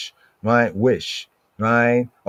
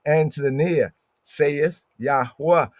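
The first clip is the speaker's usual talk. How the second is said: loud, higher, easygoing greeting of peace; casual street greeting; 4 semitones higher, 3 dB louder than usual. Retold or imitated. Preacher voicing how we greet each other, casual and loud. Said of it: "That's how we talk".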